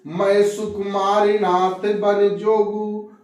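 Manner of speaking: slow, drawn-out poem chant; measured recital of a couplet; verse recitation. Acted. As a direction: stretch each phrase, falling at the close.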